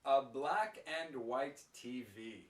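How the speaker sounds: "and" fully pronounced, every word distinct; very clear pronunciation. Shown as a demonstration. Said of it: "if I say it clearly".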